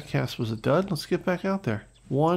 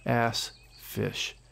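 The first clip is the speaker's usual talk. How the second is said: dismayed; 2 semitones lower, slower than usual. Real, not acted. Just lost a big fish.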